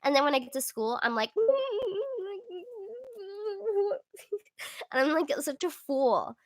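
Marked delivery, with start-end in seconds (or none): 1.4-4.4 high, drawn-out nervous squeal; long high-pitched whimper; high thin squeal. Acted. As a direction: squeak helplessly in front of your crush. Freezing up around crush at school.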